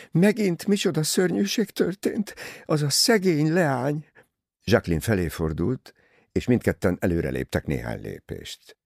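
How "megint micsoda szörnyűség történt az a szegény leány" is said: very high, distraught gossip; beside herself. A narrator's reading. Cornélia bringing news to the others, beside herself. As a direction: blurt the dreadful news in a high voice. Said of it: "magán kívül újságolta".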